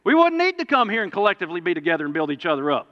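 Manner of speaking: rising pulpit fervor; preaching loud. Real, not acted. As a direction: build it up like a sermon climax. Preacher building to emphasis.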